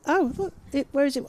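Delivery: high, laughing exclamation. Real, not acted. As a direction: laugh through the words. Laughs, looks at weather.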